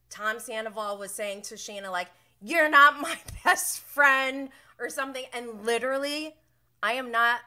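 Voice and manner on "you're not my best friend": put-on childish. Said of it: "my four-year-old says that".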